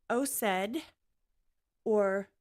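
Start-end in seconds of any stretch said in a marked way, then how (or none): 0.1-0.8 "Osed" sounded out as a foreign name; attempted pronunciation. Shown as a demonstration. Reading ChatGPT's guide to a name aloud, attempted pronunciation of "Osed". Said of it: "how to say it".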